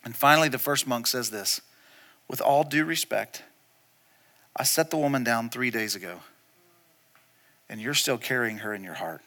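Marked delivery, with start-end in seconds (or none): 2.3-9.2 low, hushed, measured reply; calm retold rebuke. First monk answers his angry friend, calm quiet rebuke. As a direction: deliver it softly, letting each phrase settle.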